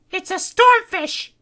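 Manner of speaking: Kitty's voice. Acted. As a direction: let the name sink in. Kitty voice, slow.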